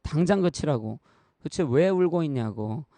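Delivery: retold angry yell at a crying child, loud at the start; dad snapping at his child, loud then easing; angry father scolding his crying daughter. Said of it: "막 다짜고짜 화를 냈습니다".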